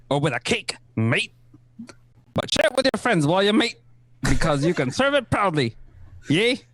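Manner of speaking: put-on Kiwi accent.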